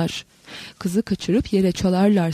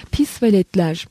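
hafif tiz, öfkeyle azarlayan ses; ince öfkeli ses; 3 dB louder than usual. Acted. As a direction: ince sesle kızgınca çıkış. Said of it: "ince, öfkeli bir ses duyuldu". (ince, öfkeli bir sesle)

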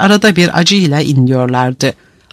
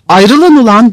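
loud, raised-pitch command; guard shouting over a brawl; rough order; 7 semitones higher, 5 dB louder, slower than usual. A narrator's reading. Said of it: "küfür saldırısı uğultuyu iyice yükseltti".

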